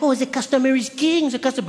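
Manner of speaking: lightly mocking American sales pitch; mock American motto. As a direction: parody the customer-is-king line. Mocking American service attitude.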